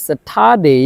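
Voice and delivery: স্যাটারডে said the British way, no R sound; British Saturday. Shown as a demonstration. Teacher modeling স্যাটারডে for students, no R sound. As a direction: drop the R in স্যাটারডে. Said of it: "এটা হবে".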